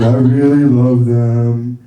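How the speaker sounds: slow, drawn-out, earnest toast; milk each word like a clumsy sincere toast; slow sappy best-man speech from a cousin; rambling cousin. Retold or imitated. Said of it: "cousin that didn't really do much".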